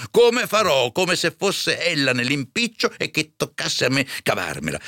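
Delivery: high, exasperated outburst; angry curate. A narrator's reading. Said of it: "disse il curato in collera". (curato in collera, sfogo acuto)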